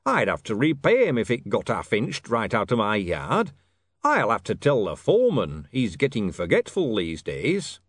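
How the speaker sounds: emphatic grumble to nobody; king, pointedly musing. Acted. Harry muses about a stealable order, pointed. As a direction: complain aloud as a broad hint.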